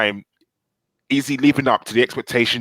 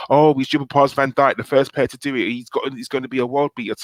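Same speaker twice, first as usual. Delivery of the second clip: imitating excited hype, slightly higher; mock excitement; 3 semitones higher than usual. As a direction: gush like an over-excited fan, lightly mimicked. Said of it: "He's all excited".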